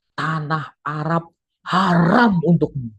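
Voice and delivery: slow, loud menacing boom; mild booming demon voice. Retold or imitated. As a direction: boom it like a dark spirit. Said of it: "Dengan suara yang menggelegar".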